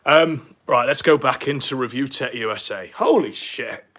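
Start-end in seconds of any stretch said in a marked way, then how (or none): 2.9-3.9 panting after crawling around; winded, catching breath. Real, not acted. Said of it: "I'm out of breath".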